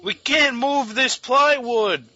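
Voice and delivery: high, slow wail; hammed-up helpless cry; mock distress. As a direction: plead in drawn-out fake panic. Dubbing panicked people in film.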